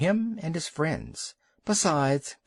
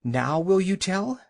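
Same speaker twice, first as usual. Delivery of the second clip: out of breath; 6 semitones higher than usual. A narrator's reading. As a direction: gasp it out of breath. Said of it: "all out of breath".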